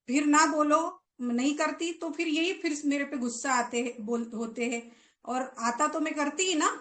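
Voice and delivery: half-acted complaint against mom and aunt; mild mock outburst. Girl cutting in on her mother, mildly indignant. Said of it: "एकदम तुरंत बीच में बोल पड़ी".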